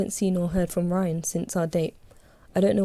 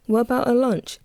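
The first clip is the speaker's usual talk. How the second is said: raised voice calling after someone, higher; 6 semitones higher, 4 dB louder than usual. A narrator's reading. Lisa calls after the narrator as she leaves, calling out. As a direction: call it out across the room. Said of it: "Lisa calls as I walk off".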